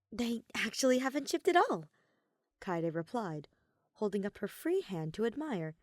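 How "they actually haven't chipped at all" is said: Kaede's voice. Acted.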